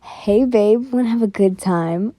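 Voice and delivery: lightly voiced creep, pitch sliding low; creepy come-on to a stranger. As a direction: put on a bit of a creepy guy voice. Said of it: "I gotta do a creepy voice".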